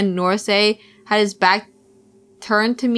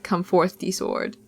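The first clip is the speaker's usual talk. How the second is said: hushed summoning; 3 semitones lower, 6 dB quieter, slower than usual. Acted. Summoning a sword.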